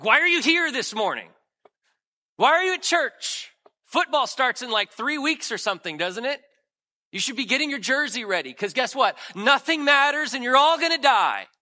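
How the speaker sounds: loud, high, mocking rant at the congregation; mock despairing John. Preacher mocking John, hopeless prophet scolding churchgoers, loud and high. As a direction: ham up a hopeless prophet yelling at the crowd.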